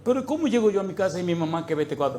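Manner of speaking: tearful helpless plea. Retold or imitated. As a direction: beg God through helpless tears. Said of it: "empecé a llorar de impotencia".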